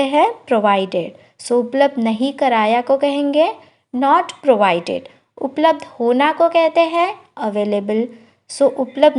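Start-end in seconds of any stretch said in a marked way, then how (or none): 3.9-5.1 slow, careful model phrase; slow teacher demo of the English. Shown as a demonstration. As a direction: spell it out slowly for learners. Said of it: "slow model phrase".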